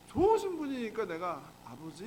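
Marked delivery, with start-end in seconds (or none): 1.6-2.0 soft, lower call to Father; low-key, unforced prayer address; calling Father gently. Acted. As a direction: say it quietly, as to someone who hears well. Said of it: "했더니".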